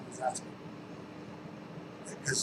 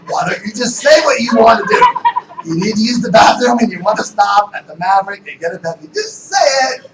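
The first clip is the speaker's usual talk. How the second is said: much louder and higher, laughing shout; exasperated shout; 7 semitones higher, 16 dB louder than usual. Retold or imitated. Husband shouting at his wife to just say it, laughing and loud. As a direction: bellow it in mock frustration at his wife. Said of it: "I'm like".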